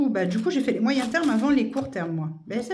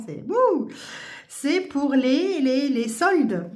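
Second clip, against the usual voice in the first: slow drawn-out searching; 4 semitones higher, 3 dB louder, slower than usual. Real, not acted.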